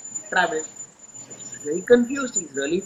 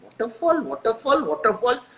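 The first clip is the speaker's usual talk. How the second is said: dawning repetition; 2 semitones higher than usual. Acted. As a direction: mull it over, word by word rising. Son repeating word as it clicks.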